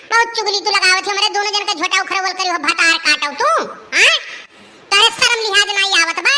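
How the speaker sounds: fast, heated scolding; angry accusation. Acted. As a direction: tell her off fast and hot. Quarrel, accusing the gossip.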